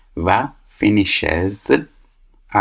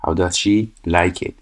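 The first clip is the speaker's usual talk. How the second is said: 1 slow model answer; much slower than usual. Shown as a demonstration. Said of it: "فعل رو کاملاً به همون حالت میاریم".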